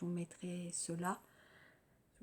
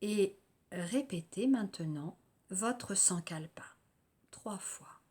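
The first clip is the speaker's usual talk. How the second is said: calm, unhurried guided-relaxation voice with long pauses; lightly meditative delivery, letting phrase endings settle; guided yoga nidra. Real, not acted. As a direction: guide listeners gently into rest, phrase by phrase.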